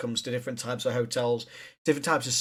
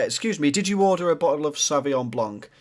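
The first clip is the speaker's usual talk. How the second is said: imitating the waiter. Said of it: "it's not a great way".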